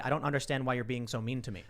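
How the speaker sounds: soft, non-hostile puzzlement; accommodating. Retold or imitated. Replying to online insults, calm and accommodating. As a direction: demonstrate a mild, unprovoked reply. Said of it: "try and actually be accommodating".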